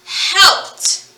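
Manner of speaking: Helped in one syllable, ending in a crisp T; final T sound. Shown as a demonstration. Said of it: "We actually hear the T sound".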